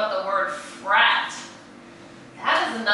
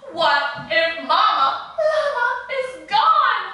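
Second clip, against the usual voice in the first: worried; 10 semitones higher, 3 dB louder than usual. A narrator's reading. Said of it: "He's feeling a little scared".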